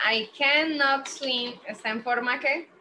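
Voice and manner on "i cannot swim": slow, with cannot drawn out; slow careful English. Shown as a demonstration. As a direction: read it slowly, leaning on cannot. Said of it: "si aquí dice".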